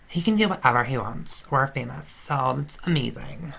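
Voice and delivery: a hint of a ditzy valley girl; valley airhead. Fake sister on the reality show, a touch of valley airhead. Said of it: "sound like some valley airhead".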